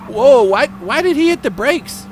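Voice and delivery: loud, high whoa; shocked. Real, not acted. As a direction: blurt it in disbelief. Sudden braking seen on replay.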